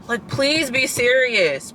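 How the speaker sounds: slow, drawn-out please be serious; exasperated plea. Real, not acted. Complaining about professors, slow exasperated plea. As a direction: stretch "please" out, begging.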